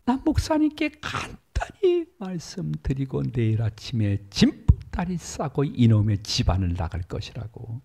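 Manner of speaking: mock yell, threatening to walk out of the house; retold angry yell. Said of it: "소리를 버럭 지르면서". (화가 나서 소리를 버럭 지르듯 높은 목소리로)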